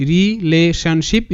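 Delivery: very slow, rising at the end; syllable by syllable. Shown as a demonstration. Teacher sounds out the last word for students, syllable by syllable. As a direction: sound out রিলেশনশিপ in separate parts. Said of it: "ভাঙবো তারপরই উচ্চারণটা করব".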